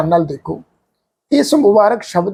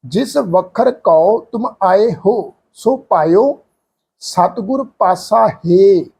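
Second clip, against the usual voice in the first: very slow, word by word, ਹੋ short at the end; slow scripture recitation; much slower than usual. Shown as a demonstration. Teacher reciting a scripture example for the sangat. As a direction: recite the line slowly and reverently. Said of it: "ਇੱਥੇ ਪਾਠ ਆਏਗਾ ਹੋ".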